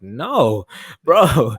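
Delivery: laughing disbelief. Retold or imitated.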